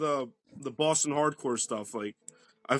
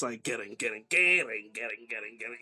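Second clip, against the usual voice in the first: mimicked breakdown chugs; 5 semitones lower than usual. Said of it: "these drops".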